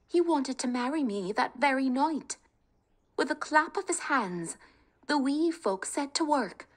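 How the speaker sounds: put-on young woman's tale told to a king, bright and high; Kate telling her tale. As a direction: spin the tale to win freedom.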